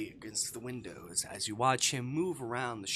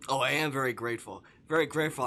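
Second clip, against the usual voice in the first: sarcastic; 4 semitones higher, 9 dB louder, faster than usual. Acted. Sarcastic retort.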